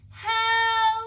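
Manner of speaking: huge, high, drawn-out shout; as loud as possible. Shown as a demonstration. Storytime leader showing children the loudest hello, full shout. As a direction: belt out a great big hello. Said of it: "as loud as we can".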